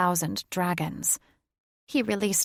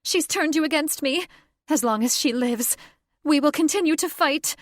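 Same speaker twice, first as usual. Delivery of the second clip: higher, louder snarling shriek; snarled; 9 semitones higher, 4 dB louder than usual. Acted. Catherine snarls at Thaddeus about the witch, shrill. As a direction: snarl it out high and fierce. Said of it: "Catherine snarled".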